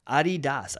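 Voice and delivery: Adidas said AH-dee-DAHS, the podcast's way; real pronunciation. Shown as a demonstration. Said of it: "the real way to pronounce".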